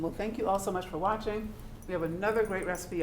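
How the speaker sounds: talking with food in mouth; words around a bite of food; chewing while talking. Real, not acted. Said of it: "I'm sorry I'm chewing".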